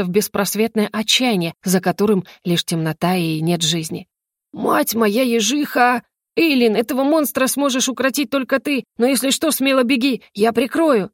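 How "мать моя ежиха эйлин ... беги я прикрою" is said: higher, animated character voice; excited exclamation. Acted. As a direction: cry out in comic alarm. Yo-Yo cries out at the monster. (взволнованно, с азартом)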